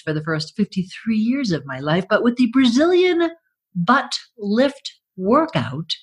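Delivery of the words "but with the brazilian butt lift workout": infomercial. Pretend. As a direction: announce it like an ad. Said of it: "product name pitched".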